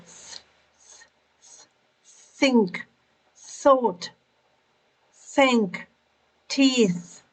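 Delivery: airy bare "th", then "think", "thought", "teeth" singly; TH sound drill. Shown as a demonstration. Teacher shows tongue and airflow, isolated "th" and careful words. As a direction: show the airflow of "th", then each word alone. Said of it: "Pay attention to your tongue and to the airflow".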